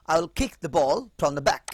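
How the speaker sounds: "kick" with a strong puff of breath on the k, said slowly; teacher spells out "I will kick the ball from the back" slowly, aspirating the k; slow aspirated demo. Shown as a demonstration. Teacher showing students the aspirated k, slow and clear. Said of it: "শেষের খ উচ্চারিত হবে".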